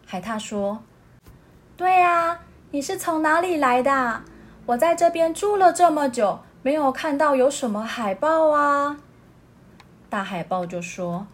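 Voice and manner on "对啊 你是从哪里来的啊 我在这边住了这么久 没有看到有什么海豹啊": high, bright questioning voice; curious otter. Acted. Otter asking the seal where he came from, high. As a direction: pepper him with questions.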